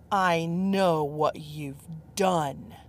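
slow, hissed whisper; menacing whisper. Acted. Judgmental man accuses her on the balcony in a slow whisper.

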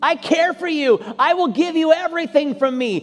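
voicing God. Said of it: "you said".

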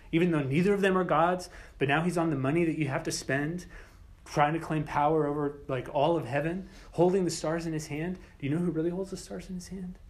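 preaching at rising force; building challenge. Acted. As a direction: press the point harder each line. Apocalyptic challenge to emperor's claims.

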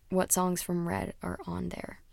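unvoiced aside to herself; quiet whisper. Real, not acted. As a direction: whisper it as you check the list. Whispering aside while checking list.

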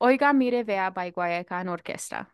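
Spanish names in a Latina accent. Shown as a demonstration. Friend redoing the song title after teasing, Latina accent. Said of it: "get your Latina accent out".

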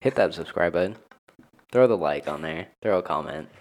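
low register all the way through; deep voice. Real, not acted. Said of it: "Why is my voice so deep?".

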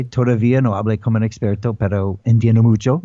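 Spanish with a thick American accent; heavy American Spanish accent. Shown as a demonstration. Host hears his Argentine Spanish, thick American accent. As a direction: speak Spanish like an American learner, a little fast. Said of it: "I have a horrible Spanish accent".

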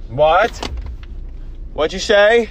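high loud mock confusion; switching impression voices. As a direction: squeal it out in confusion. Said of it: "doing an impression of you".

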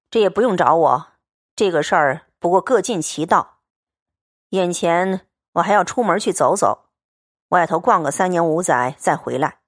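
steady, cool young swordsman, lightly voiced; calm and blunt, a man of few words; Liu Xianglian's voice. Xianglian calmly tells Baoyu the money is set aside, steady and cool.

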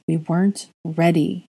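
distant, hollow and slow; slow, dazed repeat. Acted. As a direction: say it slowly, far away. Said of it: "he repeated again".

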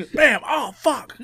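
jumping up high in pitch; mock collision yelp. Imagining Steve running into the invisible jet, comic yelp. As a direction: play a sudden bump and a high, startled curse.

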